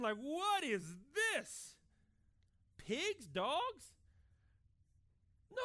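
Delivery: loud, incredulous complaint to Jesus; baffled protest. Pretend. Reader protesting to Jesus about pigs, incredulous. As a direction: protest like a confused first-time reader.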